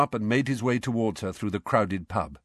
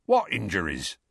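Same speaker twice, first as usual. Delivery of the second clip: Hagrid feigning innocence. A narrator's reading.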